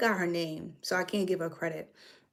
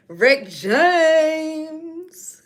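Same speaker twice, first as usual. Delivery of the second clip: put-on voice of a singer in a New York accent, louder and higher; 8 semitones higher, 8 dB louder than usual. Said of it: "You got the accent".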